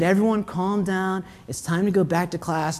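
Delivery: put-on understated teacher calming kids down. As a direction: quietly settle the class, as an imitated teacher. Teacher voiced calming rowdy kids.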